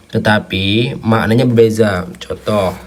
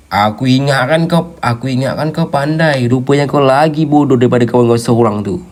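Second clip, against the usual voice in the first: mock anger; 4 semitones higher than usual. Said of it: "contoh lu tengah marah".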